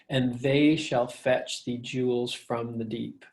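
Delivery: slow reading with THEY leaning out after a light "And"; iambic stress. Shown as a demonstration. Teacher showing five iambic feet, iambic stress. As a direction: read "And they shall fetch" slowly in rising iambs. Demo of iambic pentameter line.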